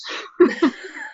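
rueful laugh. Real, not acted. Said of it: "I have to laugh".

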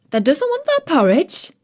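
high, astonished Yorkshire maid; can't believe her ears; incredulous. A narrator's reading. Maid Martha hears Mary refuse porridge, incredulous and high. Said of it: "Martha exclaimed incredulously".

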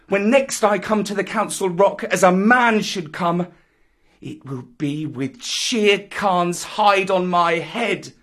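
put-on high, loud boy banishing the pack; scornful Mowgli. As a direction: drive them out, building to a shout. Mowgli drives out tiger and wolves.

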